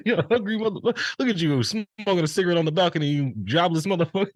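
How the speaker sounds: mock taunt. Friend voices girlfriend mocking him, high and jeering. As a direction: jeer like a nagging girlfriend.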